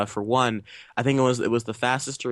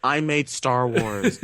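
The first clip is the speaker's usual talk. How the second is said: drawn-out boast with a laugh in it; mock-pompous director, lightly played; J J Abrams; much slower than usual. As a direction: say it slowly, half laughing. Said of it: "I'm J J Abrams".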